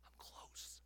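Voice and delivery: slow unvoiced whisper; hushed and intimate. Shown as a demonstration. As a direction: lean in and whisper. God's whisper demonstrated.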